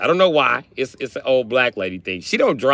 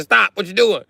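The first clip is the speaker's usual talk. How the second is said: high, loud warning shout; alarmed yell; 9 semitones higher, 4 dB louder than usual. Retold or imitated. Kid warning step-grandpa before the crash, loud and alarmed. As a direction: yell at him to stop now.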